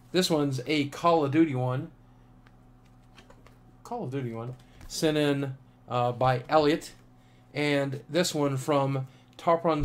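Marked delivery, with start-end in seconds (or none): 3.8-4.6 quiet repeat. Real, not acted. Vlogger repeating a postcard's theme to himself, quiet repeat. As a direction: repeat it softly, as an aside. Quieter echo of own announcement.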